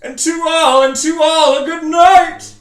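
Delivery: very high, full-volume gleeful shout; long-drawn maniacal holler; cackling cry. A narrator's reading. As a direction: crow it out like a mad, triumphant Santa. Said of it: "Jack cackled".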